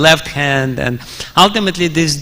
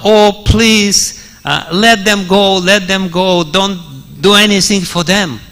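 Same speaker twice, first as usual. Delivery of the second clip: higher, pleading voice as Sita in tears; a touch of crying as Sita begs; tearful plea; 3 semitones higher than usual. Retold or imitated. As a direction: beg him through tears, voice lifted. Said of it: "Sita started crying".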